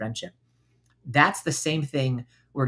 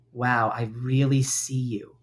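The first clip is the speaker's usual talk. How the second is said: slow gentle acknowledgement; 2 semitones lower, 3 dB quieter, slower than usual. Shown as a demonstration. Kind self-talk demo.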